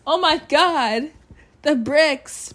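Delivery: high, loud hammed-up shriek of alarm; mock panic. Telling listeners how her suppressed feelings collapse, comic loud panic. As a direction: yelp in comic panic as it all falls. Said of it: "And I'm like".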